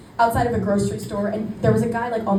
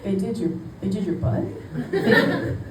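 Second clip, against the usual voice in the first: mock shocked girls. Voicing the shocked camp girls.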